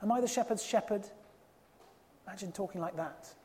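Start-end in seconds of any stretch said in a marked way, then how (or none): 0.0-1.1 a hint of a cocky retort, pitched up; cocky, indignant. Preacher voicing Cain answering God back, lightly cocky and indignant. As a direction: toss the question back with mild defiance. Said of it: "He's cocky and indignant still".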